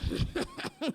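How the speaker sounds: stifled laugh to himself. Retold or imitated. Comic acts out laughing secretly at her, stifled snicker. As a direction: imitate laughing privately, held in. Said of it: "but to myself".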